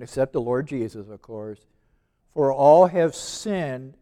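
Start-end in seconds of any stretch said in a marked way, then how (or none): 2.3-4.0 slow verse with weight on "all"; deliberate emphasis on "all"; stress on "all". Shown as a demonstration. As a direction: stretch and press on "all". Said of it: "I got an emphasis on the word all".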